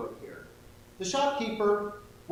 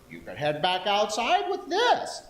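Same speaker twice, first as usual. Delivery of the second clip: higher, louder grandma voice; old lady voice; 5 semitones higher, 4 dB louder than usual. Acted. Shopkeeper offering the umbrella in old lady voice. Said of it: "my old lady voice".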